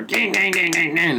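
rapid, repeated mock thumping noise; imitated porno noises. Comic describing what it didn't sound like, imitated banging. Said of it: "not in the pornos".

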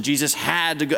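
"had" said with reluctant emphasis, as a last option; stress on HAD. Shown as a demonstration. Preacher reading as a first century Jewish person, stress on "had". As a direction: punch the word "had". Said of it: "That's how a first century Jewish person would have read this".

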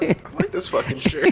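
squeaky outraged protest; high indignant whine. Retold or imitated. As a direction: whine about the shirt. Retold protest to the makeup artist.

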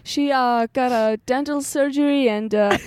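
slow, lightly voiced boss breaking into laughs; calm the staff while stifling giggles; mock boss.

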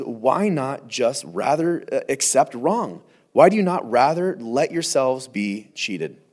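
slow, weighing each word; slow emphatic reread. Shown as a demonstration. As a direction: linger on every word so it sinks in. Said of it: "I had to read that a couple times".

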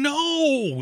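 high-pitched, drawn-out mock scream of no. Host retelling his silent reaction to a friend's kill, mock scream. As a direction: wail it high without real volume, hammed-up. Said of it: "I'm screaming at the guy".

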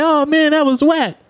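imitating friends who wanted a scarier spot; mock bored friends. Friends bored, want more.

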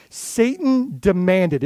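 slow, insistent quote of a demand; demanding inflection. Retold or imitated. Preacher quoting Jesus on Satan's demand, demanding inflection. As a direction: press the demand out slowly. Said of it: "don't have that same inflection".

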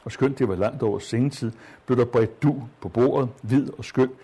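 measured literary read-aloud voice; story reading. Acted. Teacher reading a wartime story aloud to students, measured. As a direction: read the passage to the class with care.

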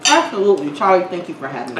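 talking with a mouthful of food; words around a bite of salad; mouth full. Real, not acted. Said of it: "make you talk with your mouth full".

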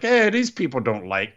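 hammed-up foreign accent, slightly Mario-like; playful mock Super Mario accent; super cool accent. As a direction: imitate a wrestler's accent, Super Mario style. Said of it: "with a super cool accent".

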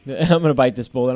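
laughing repeat through giggles. Retold or imitated. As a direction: chuckle through the line. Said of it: "And I'm like".

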